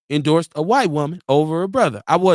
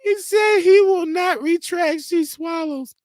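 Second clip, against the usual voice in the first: much higher, slow, dramatic reread; slow, high mock-dramatic repeat; 10 semitones higher, slower than usual. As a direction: savour it like a gossip announcer. Dramatic reread of same comment.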